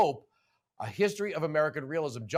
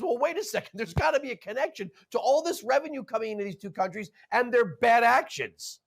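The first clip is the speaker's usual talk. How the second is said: pitched much higher, fast exasperated protest; mock incredulous objection; 7 semitones higher, faster than usual. Host voicing what nobody asks, in high exasperation. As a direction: voice the question nobody asks, indignant. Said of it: "And nobody says".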